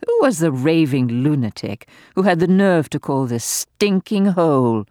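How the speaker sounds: gleeful, venomous dowager mocking the doctor; venomous old lady. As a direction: taunt him with malicious glee. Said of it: "piercing, high-pitched laugh".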